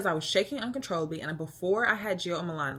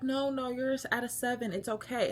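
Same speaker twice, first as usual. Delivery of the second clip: higher, lightly acted soothing nurse; imitated nurse reassurance; 7 semitones higher than usual. Nurse telling labouring patient she's only at seven, mock reassurance.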